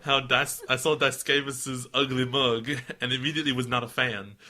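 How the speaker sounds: hammed-up Southern storyteller; mock Southern accent. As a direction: read it as an exaggerated American Southerner. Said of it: "going back to Southern".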